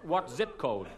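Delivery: laughing through a stammering American; puzzled Yank pressing, half laughing; American accent. Retold or imitated. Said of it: "I apologise for the American accent".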